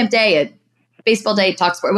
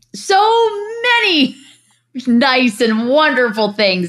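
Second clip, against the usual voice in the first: put-on heavy, thick sarcasm, slow, pitched up; 7 semitones higher than usual. Answering what people would say about her: heavy sarcasm. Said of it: "with a lot of sarcasm".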